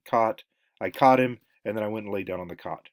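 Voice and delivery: "caught" said just like "cot", open "ah"; merged cot-caught vowel. Shown as a demonstration. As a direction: say "caught" as "cot", California-style. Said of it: "gonna say it's the same word".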